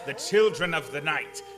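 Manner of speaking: ringing out proudly over the howling; a count's rapt cry about the wolves; exultant proclamation. Acted. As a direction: proclaim it with relish, half shouting.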